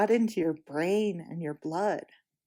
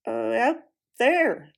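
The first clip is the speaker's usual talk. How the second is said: stout Puddleglum; 2 semitones higher, 5 dB louder, slower than usual. Acted.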